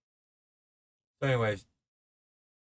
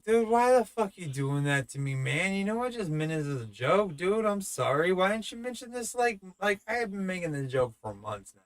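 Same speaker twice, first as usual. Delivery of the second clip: high, loud flustered backpedaling; panicked apology; 7 semitones higher, 4 dB louder than usual. Retold or imitated. Flustered pleading to his offended friend, high and loud. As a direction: scramble to apologize, voice climbing up.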